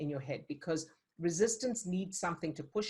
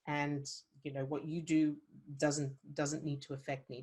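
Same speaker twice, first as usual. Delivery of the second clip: calm steady resolve; 2 semitones lower than usual. Shown as a demonstration. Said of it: "balancing thing".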